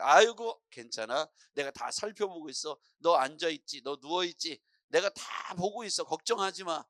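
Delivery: loud sigh of comfort, then easy reassurance; God. Acted. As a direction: soothe a worried child, stretching key words. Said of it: "이렇게 말씀하시지 않을까요?".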